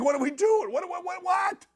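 retold panic. Host retelling the SUV flip, panicked shouting. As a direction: imitate a startled passenger blurting.

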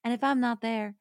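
understated, measured letter reading. Acted. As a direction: read the farewell letter aloud, gently subdued. Reads a letter aloud.

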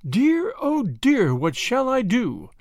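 high, drawn-out worried lament; lightly acted flustered grandmother; fretting grandma. A narrator's reading. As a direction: stretch it out in dismay. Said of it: "said Grandma".

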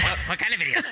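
teasing imitation. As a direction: echo the question slyly. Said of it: "as soon as she said videos".

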